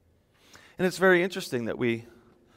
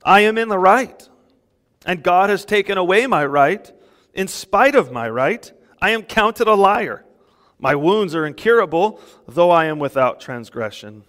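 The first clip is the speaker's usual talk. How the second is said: voicing Job's protest a bit higher and louder; quoting Job's complaint; 4 semitones higher, 7 dB louder than usual. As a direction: lay out Job's claims with mild indignation. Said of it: "this is Eliyahu".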